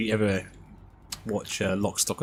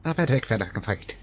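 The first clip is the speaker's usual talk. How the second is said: Irish Pikey line; 3 semitones higher than usual. Retold or imitated. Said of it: "Plays the Irish Pikey".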